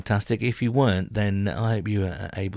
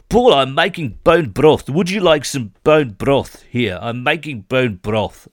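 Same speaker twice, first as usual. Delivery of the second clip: louder, insistent mock flatmate offering bone broth, slowing down; imitating Brian; 3 semitones higher, 5 dB louder than usual. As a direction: push the broth like a zealot. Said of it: "And he".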